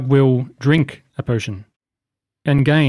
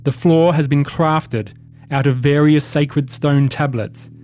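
measured, deliberate scene-setting; game master narration. A narrator's reading. Game master reveals a defiled room to the players, measured narration.

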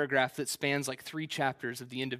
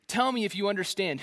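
snarky challenge; 5 semitones higher than usual. Retold or imitated. God taunting Job with a snarky, higher challenge. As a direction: Tell me if you understand, higher and pushier with a snarky bite. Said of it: "This is straight snark. God is going ape".

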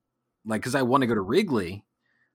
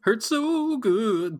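mock sultry; 12 semitones higher, 3 dB louder, much slower than usual. Drawn-out sung-like echo.

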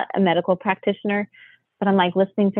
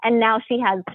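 retold anger; 4 semitones higher than usual. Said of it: "all ticked off".

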